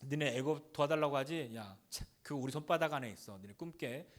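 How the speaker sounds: scornful, dropping to a low sneer; lightly played sneering general; mocking taunt. The Assyrian commander mocking Judah's hopes, a soft sneer. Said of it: "이 아수르의 군대 장관이".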